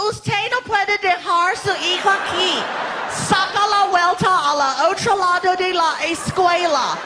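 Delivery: firm, sing-song scolding in Spanish; bossy principal. Retold or imitated. Principal telling the dad off in sing-song Spanish. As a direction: scold him like a strict school principal. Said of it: "she was like".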